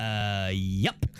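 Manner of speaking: a hesitant low porter mumble; lightly voiced night porter. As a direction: sound caught off guard. Night porter answering room service.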